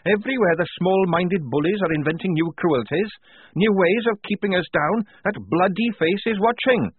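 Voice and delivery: high, loud, furious rant; heated. A narrator's reading. Tonka red in the face over bullies, ranting. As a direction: pour it out angrily, pitch way up. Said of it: "red in the face".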